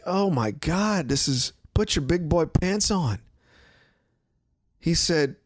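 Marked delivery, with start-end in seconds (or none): 0.0-3.2 high, slow, scoffing; mocking the tone. Host mocks reporter's condescending tone, scoffing. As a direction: imitate the condescending tone. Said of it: "The tone, like".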